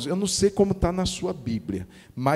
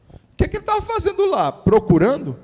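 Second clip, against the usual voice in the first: astonished question; 12 semitones higher, 7 dB louder, faster than usual. Acted. Acted villager asking.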